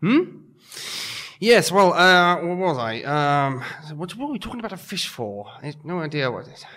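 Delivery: lightly voiced flustered, irritable rambling; a hint of an exasperated hotelier, rushing some phrases; huffy muddled grumbling, lightly acted; Basil Fawlty. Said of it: "in the style of Basil Fawlty".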